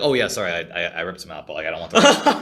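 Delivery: mock apology broken by laughs; laughing while quoting. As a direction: quote the stranger through laughter. Stranger voiced, laughing.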